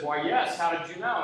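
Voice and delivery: acting out mild surprise; a touch of amazement, lightly performed; mild mock astonishment. Balloonist to the man who guessed his job, mildly astonished. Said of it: "the guy's astonished".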